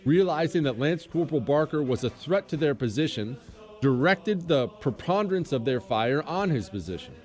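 formal citation read aloud; solemn, measured official reading; crisp military citation. Acted. Reads Medal of Honor citation.

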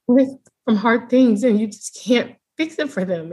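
real tears held in, sighing through the words; fighting back tears. Real, not acted. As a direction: push on while trying not to cry. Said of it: "I'm trying not to cry".

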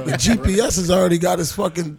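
loud and fired up; laughing crowd-pleasing yell; excited shout. Real, not acted. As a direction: shout the punchline out. Shouted punchline amid laughter.

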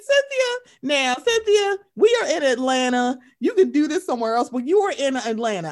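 high, loud mock scolding; imitating Kenya scolding. Host imitating Kenya scolding Cynthia, high and loud. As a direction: lecture her like a sassy reality star. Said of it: "She said".

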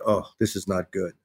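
quiet, dropped inner worry; worried inner thought. Retold or imitated. Thinking the dog show bombed, quietly dreading. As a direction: mutter it to yourself with dread. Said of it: "So I'm like".

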